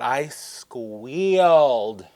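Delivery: squealed stretched out long and slow; gleeful retelling. Retold or imitated. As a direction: swell into a long, drawn-out word. Acts out her squeal reaction.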